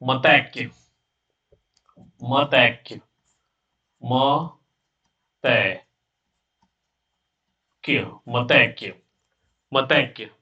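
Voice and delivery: "मतैक्य" stretched very slowly; drawn-out word. Shown as a demonstration. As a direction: say it long and slow for students. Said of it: "में लिखा एक और".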